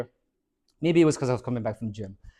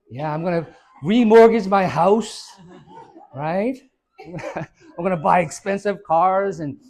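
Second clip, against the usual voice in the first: louder, higher, laughing through it; laughing mock dream; 4 semitones higher, 7 dB louder than usual. Wife dreaming of debt with her new husband, laughing. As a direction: gush it with a laugh. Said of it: "and you go".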